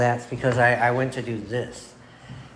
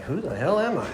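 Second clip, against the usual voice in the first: laughing; 8 semitones higher, 4 dB louder than usual. Retold or imitated. Laughing at his own awkward compliment.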